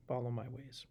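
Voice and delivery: soft breathy whisper on follow my ways. Acted. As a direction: hush it like a secret. God's instruction, whispered.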